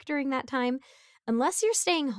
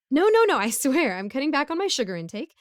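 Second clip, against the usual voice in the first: hasty denial; 4 semitones higher, 5 dB louder than usual. Acted. Hasty denial about sugar use.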